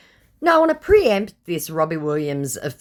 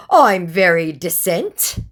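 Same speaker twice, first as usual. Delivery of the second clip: whiny protest; 6 semitones higher, 7 dB louder, slower than usual. Retold or imitated. Scammer voiced, protesting.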